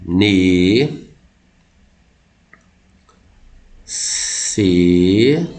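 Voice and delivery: "Ne, se, sa, ri, a" drawn out with long gaps, RI and A apart; syllable by syllable. Shown as a demonstration. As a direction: sound out five separate syllables, "ri" split from "a". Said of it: "bancas que consideram assim". ("Ne, se, sa, ri, a" pausado, separando o hiato "ri, a")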